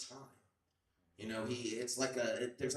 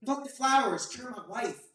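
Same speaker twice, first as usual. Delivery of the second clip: high, slow, begging yell; desperate pleading shout; 14 semitones higher, 15 dB louder, slower than usual. Acted. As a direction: scream it like your wife is dying. Elliot begging E T to return.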